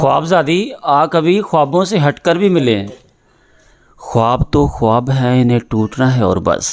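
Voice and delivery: measured ghazal recital with held pauses; poetry recitation. Acted. Poet recites his teacher's ghazal at the literary meet, measured and deliberate. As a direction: lay out each line for the gathering.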